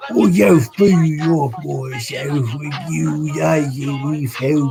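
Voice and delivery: scornful Sykes. A narrator's reading. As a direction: brush him off with contempt. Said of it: "said Sykes".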